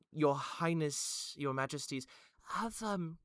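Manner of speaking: high, flustered royal voice; fussy queen, high and hurried; queen's voice. Acted. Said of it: "looks out and goes".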